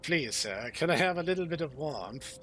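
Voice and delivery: lightly voiced humble plea; meek pleading servant. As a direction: beg politely for a little warmth. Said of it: "He's like".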